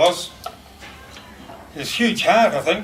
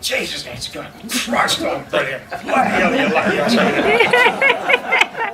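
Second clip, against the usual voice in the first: mock boastful dentist; 7 semitones higher, slower than usual. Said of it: "he'd look back and go".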